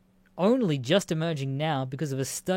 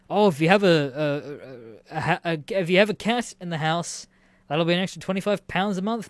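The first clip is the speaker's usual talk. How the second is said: mock landlord voice; 4 dB louder than usual. Mocking the landlord's pet charge.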